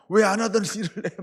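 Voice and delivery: hammed-up wife scolding her husband; nagging wife. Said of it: "또 아내들이요".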